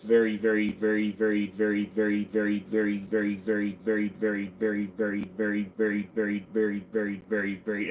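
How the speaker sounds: tongue-twister repetition. Shown as a demonstration. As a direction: rattle it off in an even, unbroken run. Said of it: "Say that ten times fast".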